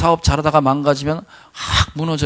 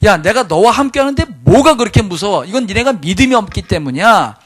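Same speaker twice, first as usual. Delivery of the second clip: rebuking Jesus; 6 semitones higher, 3 dB louder than usual. Retold or imitated. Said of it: "주님이 책망하는 거예요".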